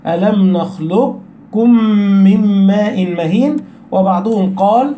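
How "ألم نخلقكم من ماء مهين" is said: "نخلقكم" with a heavy ق held before the ك; slow recitation, keep the elevated ق audible in "نخلقكم"; keep qaf's heaviness. Shown as a demonstration. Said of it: "نظهر الصفة التي في القاف". ("نخلقكم" بإظهار تفخيم القاف قبل الكاف)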